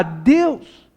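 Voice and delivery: impassioned appeal, pitch climbing to the end; crying out to God. Acted. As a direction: cry out to God for intervention. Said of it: "a gente começa a gritar".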